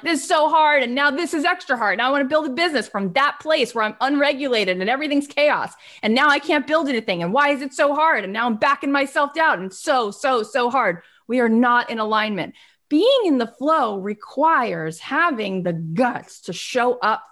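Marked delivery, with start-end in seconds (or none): 0.0-11.0 higher, fast complaining "so hard"; mock overwhelmed whine. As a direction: play the frazzled self who can't cope. Voicing overwhelmed self complaining.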